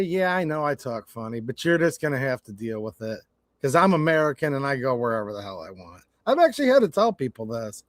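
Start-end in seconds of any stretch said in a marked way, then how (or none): 0.0-6.0 softer, level and unhurried, keeping cool; calm reply. Retold or imitated. Telling a hostile stranger in the South, calmly. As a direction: stay calm and steady, don't rise to it. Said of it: "I'll just kinda calmly say".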